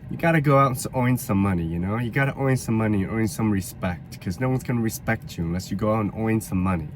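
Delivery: tough-talking New York accent; New York street guy, pushy. Shown as a demonstration. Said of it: "I also dabbled in the New York accent".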